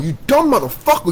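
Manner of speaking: high, slow, furious insult; angry rant. Real, not acted. Ranting at doubters, slow furious high voice. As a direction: drag out every word in contempt.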